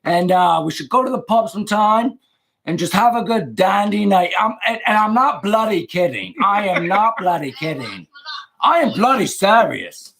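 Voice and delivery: a hammed-up fake British accent; bad British accent. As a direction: play the American faking a Brit. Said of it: "as bad as my British accent is".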